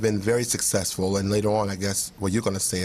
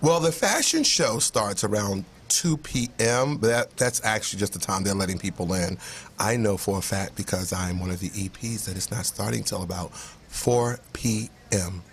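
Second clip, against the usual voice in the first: sexy voice; 3 semitones lower than usual. Acted. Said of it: "Is that supposed to be your sexy voice".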